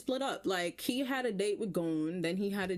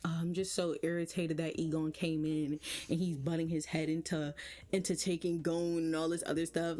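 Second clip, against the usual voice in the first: low-key imitation of casual irritation; casual griping; 4 semitones lower than usual. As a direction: grumble it offhandedly, a little low. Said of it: "sitting there so casually like".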